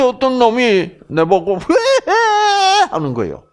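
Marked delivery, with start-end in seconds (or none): 1.6-2.9 high, long drawn-out mocking wail; jeering cry. Mirror voice jeering at the man practising smiles, mocking squeal. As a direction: jeer with a loud, stretched squeal. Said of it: "하고 막 비웃는 거야".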